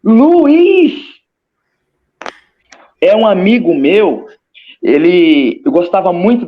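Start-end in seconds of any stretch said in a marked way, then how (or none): 0.0-1.1 high, loud call across a distance; calling out a name. Retold or imitated. Recalling the moment she spotted her dead friend, loud call. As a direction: call out to him in shock. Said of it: "aí eu olhei e falei assim".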